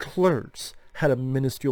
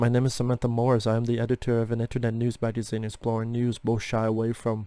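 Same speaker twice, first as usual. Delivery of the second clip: put-on robot-like flat monotone; 3 semitones lower than usual. Mocking how she delivered the written lines, in a mock robotic monotone. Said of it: "She sounds like a fucking robot".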